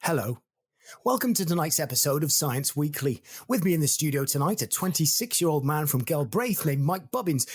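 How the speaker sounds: lightly voiced science-show host; TV presenter introduction. Host introducing a guest to viewers, mock-formal presenter. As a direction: present it like a studio link.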